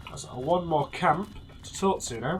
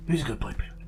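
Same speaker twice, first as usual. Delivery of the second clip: condescending dog talk; 2 semitones lower than usual. Pretend. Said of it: "Boone really likes being condescended".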